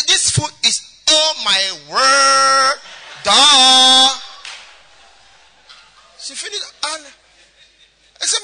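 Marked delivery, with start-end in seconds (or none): 0.1-4.2 put-on slow, drawled foreign-schooled accent, louder; returnee put-on accent. Daughter back from abroad asking mommy for food, put-on accent. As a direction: ham up the posh abroad accent. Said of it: "how they do when they don't go school for abroad".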